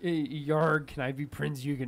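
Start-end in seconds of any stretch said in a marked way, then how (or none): 0.5-0.9 lightly voiced pirate asking; a hint of pirate swagger on the question. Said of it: "Shut up and do a pirate voice".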